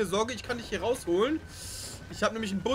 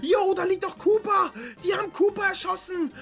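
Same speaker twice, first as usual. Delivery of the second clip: shocked shout; 8 semitones higher, 5 dB louder than usual. Pretend. Streamer finding Cooper shot, crying out high and loud. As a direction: blurt out the shock.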